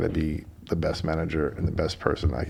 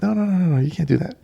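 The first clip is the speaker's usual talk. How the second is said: emphatic protest; 5 semitones higher, 3 dB louder than usual. Retold or imitated. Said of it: "And I'm like".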